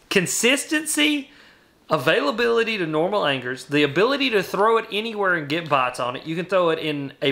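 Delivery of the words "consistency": high, drawn-out insistence on Consistency; insistent emphasis. Real, not acted. Pushing back on the co-host who said no, with a high drawn-out Consistency. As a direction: stretch out Consistency, pitched way up, to win the argument.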